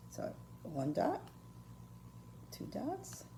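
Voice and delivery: fading count. Shown as a demonstration. Teacher counting dots aloud for her viewers, fading to a whisper. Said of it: "See what I'm doing?".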